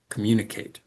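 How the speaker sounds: "Communicate" with "com" and "i" weakened, "mun" and "cate" strong; weak first, third syllables. Shown as a demonstration. Teacher showing weaker syllables in communicate, first and third reduced. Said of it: "We don't hear them as strong".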